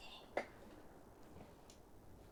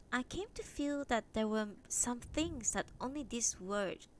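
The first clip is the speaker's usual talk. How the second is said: measured read-aloud storytelling; story narration. A narrator's reading. Reading a translated Japanese novel to stream viewers, story narration. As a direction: read the novel out clearly, phrase by phrase. Reads chapter four aloud.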